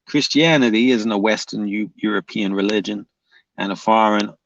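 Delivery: half-hearted attempt at a Georgian accent; bad Georgian accent. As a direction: try a Georgian accent and do it badly. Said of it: "my accent's bad".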